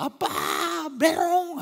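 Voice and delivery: put-on high, loud childish shout; toddler's outraged taunt; angry little girl. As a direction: yell it like a furious four-year-old. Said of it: "그러니까".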